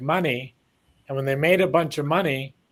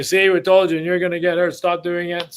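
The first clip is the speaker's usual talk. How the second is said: higher, louder I-told-you-so, half-teasing; mock told-you-so; 3 semitones higher, 3 dB louder than usual. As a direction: imitate the people around him scolding. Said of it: "And then they would say".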